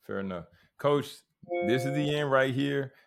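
ordinary talk

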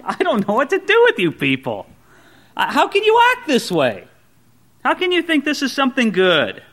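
a hint of exasperated Paul, lightly voiced. Pastor voicing Paul to the congregation, mildly exasperated. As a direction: sigh it out like a fed-up apostle. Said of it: "Paul sounds exasperated".

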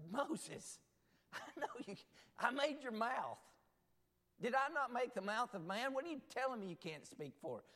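preaching God's promise with force; God reassuring Moses. Retold or imitated. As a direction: drive home I'm going with you.

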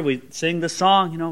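ordinary talk

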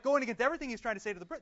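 fast, loud mock rant; hammed-up angry traveller; imitating a yell. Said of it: "he starts yelling at him".

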